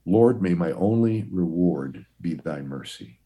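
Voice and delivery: slow, reverent reading of a dying monk's prayer. Retold or imitated. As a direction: lay the prayer down slowly and solemnly. This is his prayer.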